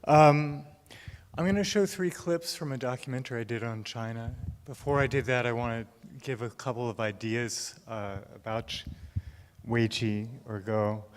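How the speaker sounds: breathless after running; slightly winded, catching breath. Real, not acted. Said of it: "I'm out of breath 'cause I ran".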